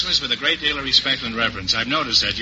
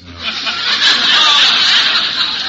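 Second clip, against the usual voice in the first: surprised; 14 semitones higher, 5 dB louder than usual. Real, not acted. Host amused exclamation.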